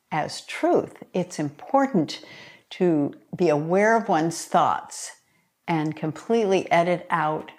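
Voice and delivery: deliberate, phrase-by-phrase reading with pauses; measured book reading. Acted. Author explains affirmations to listeners, measured reading aloud. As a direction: read it out as prepared text, weighting key words. Reads a prepared passage from her book.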